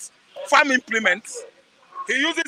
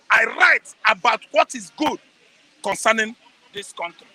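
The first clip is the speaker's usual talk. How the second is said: emphatic; 3 semitones lower than usual. Real, not acted. Emphatic rant about his writing.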